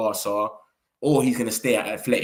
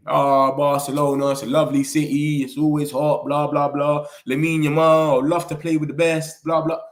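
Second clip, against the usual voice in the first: mock Rashford. Footballer fawning over Barcelona in a TV interview, mildly mocking. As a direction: rattle off mock praise, evenly pitched. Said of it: "Rashford's gone on the Spanish interview".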